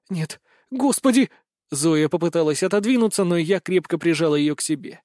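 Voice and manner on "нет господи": horrified. Acted. Zoe recoiling in horror.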